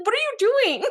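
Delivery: high, exasperated question; high mock disbelief. Mocking crew.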